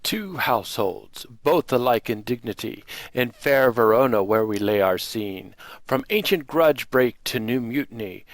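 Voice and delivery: lightly declaimed Shakespearean prologue; dramatic recitation. Acted. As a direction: recite verse with measured stage delivery.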